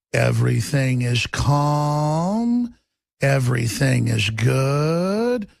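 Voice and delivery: slow, hushed radio calm; mock soothing calm. Mocking NPR's soothing tone, very slow and lulling. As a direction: lull them like a sedated host.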